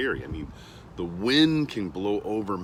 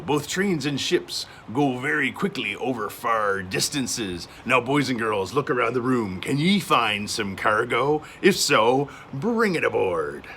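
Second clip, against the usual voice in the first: sailor voice. Pretend. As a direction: talk like a hearty old sailor. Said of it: "I need to use my sailor voice".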